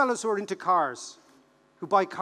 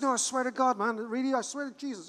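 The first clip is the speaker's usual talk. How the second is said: higher-pitched earnest swearing; mock insistence; 5 semitones higher than usual. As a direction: imitate a friend pleading his case. Voices friend insisting.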